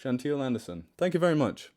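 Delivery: put-on Australian accent, talking through the teeth; mock-Australian, teeth barely apart. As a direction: do amateur Australian with teeth held close. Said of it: "Maybe if I talk through my teeth".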